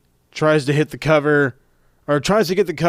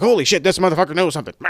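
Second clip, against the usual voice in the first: retold flustered disbelief; 3 semitones higher, much faster than usual. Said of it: "King is beside himself".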